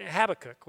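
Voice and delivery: "Habakkuk" as HAB-uh-kuk. Shown as a demonstration. Preacher quoting the online pronunciation, front-stressed. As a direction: stress the first syllable of "Habakkuk". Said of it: "the way I've always said it".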